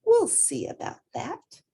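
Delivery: high, stubborn little voice; defiant child; determined. A narrator's reading. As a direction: refuse to be told no. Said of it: "Portly was determined".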